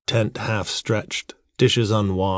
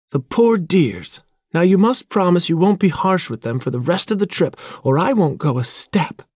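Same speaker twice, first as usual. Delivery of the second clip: high-pitched, indignant sympathy; pleading woman; 10 semitones higher, 4 dB louder than usual. A narrator's reading. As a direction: plead for the animals in a high feminine voice. Wife pleads for the dogs.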